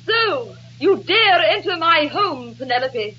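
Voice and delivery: slow, imperious challenge; haughty stage heroine, drawn out; stagey melodrama. Acted. Actress rehearsing the play confronts an intruder, stagey melodrama.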